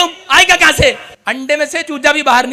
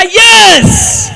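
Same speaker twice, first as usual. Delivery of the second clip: shouted yes; 9 semitones higher, 7 dB louder than usual. Retold or imitated. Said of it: "कह रहा".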